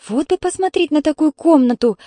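put-on high, wistful child's wish; drawn-out longing. A narrator's reading. Little sister wishes to see the room, longingly. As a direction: stretch it out dreamily. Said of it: "моментально протянула Танюшка".

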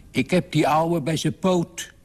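high-pitched excited call. A narrator's reading. Father tells his daughter he caught Sinterklaas, calling out. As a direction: call it out high, without much extra volume. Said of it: "riep hij".

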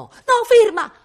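urlato molto in alto e fortissimo; grido disperato. Acted. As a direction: implora gridando di fermarsi. Pages torn from his book.

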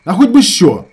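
high, loud retort; boiling anger. A narrator's reading. Shamil boils over at his brother, angry. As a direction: throw it back, seething. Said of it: "так само закипав Шаміль".

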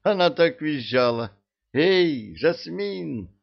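loud, high panicked yell. A narrator's reading. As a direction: shout it out in alarm. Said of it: "заорал лейтенант".

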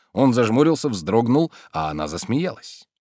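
ordinary delivery

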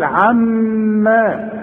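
عما with a long held nasal meem; nasal ghunna. Shown as a demonstration. Teacher showing the held ghunna on a doubled meem. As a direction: hold the doubled meem in the nose. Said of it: "لازم تغن".

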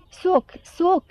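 high, rasping parrot shriek; parrot screech. A narrator's reading. Parrot denouncing the girl before the court, screeching. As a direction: squawk it like an old iron gate ripped loose. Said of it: "bătu din aripi și țipă".

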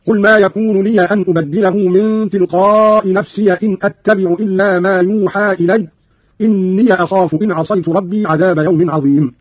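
لي, نفسي and إني said with an open "ya" ending; measured recitation, "liya", "nafsiya", "inniya"; fatha on the ya. Shown as a demonstration. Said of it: "قرأ قالون بفتح الياء من لي أن".

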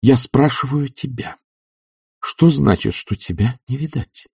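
slow, high female voice; measured demand from a woman; insistent questioning. A narrator's reading. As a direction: press him deliberately. Olga presses Oblomov for answer.

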